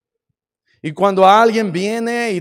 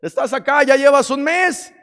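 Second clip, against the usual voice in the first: lightly voiced, higher coaxing devil; a hint of a sly devil coaxing; tempting devil; 7 semitones higher than usual. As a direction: lure them out sweetly like a tempter. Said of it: "el diablo usa ese lugar para decirte".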